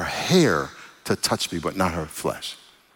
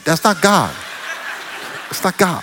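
emphatic no; 5 semitones higher than usual. Real, not acted. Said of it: "emphatic denial".

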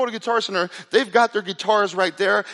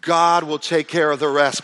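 louder, slow declaration; proclaimed; 5 dB louder, slower than usual. Real, not acted. Pastor turning the whisper into a loud proclamation. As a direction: ring it out to the congregation. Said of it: "punchline proclaimed after whisper".

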